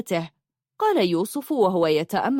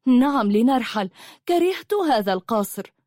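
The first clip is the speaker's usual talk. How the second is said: raised-pitch, eager agreement; very enthusiastic; 4 semitones higher than usual. Acted. A woman agreeing to leave the hated palace, enthusiastic. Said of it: "قالت حبيبة بحماس شديد".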